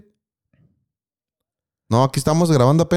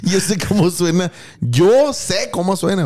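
mocking echo; 4 semitones higher, slower than usual. Mocking friend's boast.

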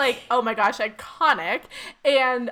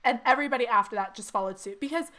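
voice cracking. Real, not acted. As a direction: voice cracking with emotion. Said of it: "sorry, my voice is cracking".

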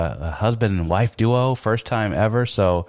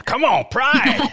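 cheer; 4 dB louder, slower than usual. Real, not acted. Cheering the school.

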